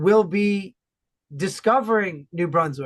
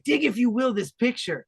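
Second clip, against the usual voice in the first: theatrical pitch; 3 semitones higher than usual. Retold or imitated. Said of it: "Really laying it on with some dramaturgy".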